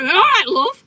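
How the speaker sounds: high, loud cheery call; quick-talking neighbour. Retold or imitated. Neighbour knocking on the door, quick loud greeting. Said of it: "like that".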